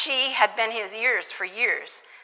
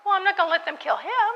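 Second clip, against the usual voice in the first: a lightly voiced, quick, higher flat refusal; firm refusal; 10 semitones higher, faster than usual. Missionary refusing to let the attackers kill the man, mildly firm. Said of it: "And I'm like".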